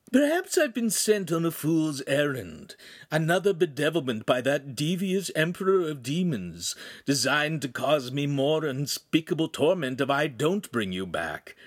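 mock-solemn minion, falling at the end; theatrical demon imp. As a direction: grumble grandly about infernal torment. Imp plays musing demon.

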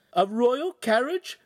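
a mother's astonished cry of joy; excited shout. A narrator's reading. The signora cries out at news of a royal carriage, thrilled. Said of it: "the signora shouted".

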